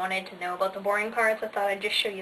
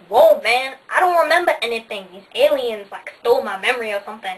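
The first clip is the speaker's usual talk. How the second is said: hammed-up amnesiac panic; mock confused hero; 8 dB louder than usual. Retelling Daniel Craig waking confused, loud and startled. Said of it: "Daniel Craig's all like".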